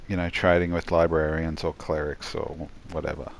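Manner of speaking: talking through a yawn; stretched yawn mid-sentence. Real, not acted. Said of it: "Pardon my yawning".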